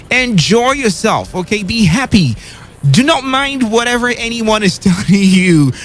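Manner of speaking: upbeat pep talk, rising on key words; motivational speaker. Acted. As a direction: coach the listener like a motivational speaker. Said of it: "Why am I sounding like a motivational speaker".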